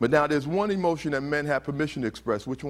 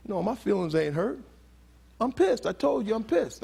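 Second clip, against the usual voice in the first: higher-pitched indignant denial of being hurt; angry boy; 7 semitones higher than usual. Retold or imitated. Speaker imitates a boy denying hurt to an adult, angry protest. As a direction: protest as an insistent, pissed-off boy. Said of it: "he's angry at him".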